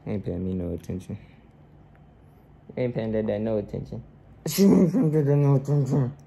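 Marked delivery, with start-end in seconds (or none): 4.5-6.1 laughs through the words; amused, chuckling through it; laughing. Real, not acted. Laughing at baby.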